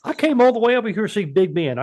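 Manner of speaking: Justin impersonation. Retold or imitated. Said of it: "his Justin impersonation".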